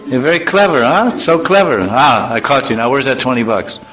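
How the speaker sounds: high mocking father voice; a father catching his son; teasing father. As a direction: tease the son for being clever. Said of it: "if someone says you're chatur".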